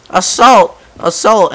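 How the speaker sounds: high, loud imitation of crying out; hammed-up accusing yelp; mock outcry. Driver accusing the cop as he's grabbed, mock outcry.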